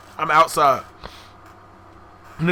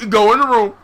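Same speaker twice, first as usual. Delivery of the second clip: lightly voiced parent; 3 dB louder than usual. Parent sending kid in for a whooping, a hint of sternness. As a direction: spell out each command firmly.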